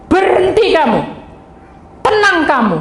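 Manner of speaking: high, loud commanding rebuke of a spirit; loud, high casting-out command; stern rebuke. Retold or imitated. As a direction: order the spirit to stop with full authority.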